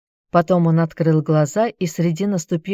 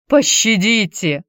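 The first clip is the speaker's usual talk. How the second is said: whimpering; 3 semitones higher, slower than usual. Acted. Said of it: "хныкал Хилон".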